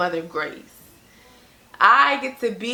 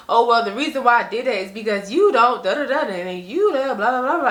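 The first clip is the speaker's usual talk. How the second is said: mimicking mom's excuse. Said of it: "that's what I used to get".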